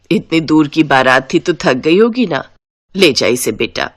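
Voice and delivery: lightly voiced mother-in-law; caring mother-in-law. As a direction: send the tired bride to rest. Mother-in-law tells son.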